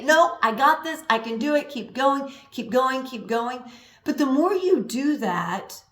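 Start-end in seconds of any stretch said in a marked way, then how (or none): 0.0-3.6 mock self push. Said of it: "push through and say".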